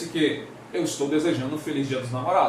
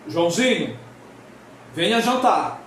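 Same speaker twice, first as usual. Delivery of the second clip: exclamatory call. Shown as a demonstration. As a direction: shout it out like calling a child to eat. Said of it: "Deixa eu mudar a entonação porque tem um sinal de exclamação".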